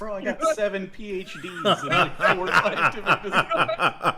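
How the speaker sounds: high, slow, laughing protest; mock-indignant, laughing as you quote; retold indignant comeback. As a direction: stretch it out loud and high, punching each word. Acting out the character's indignant comeback.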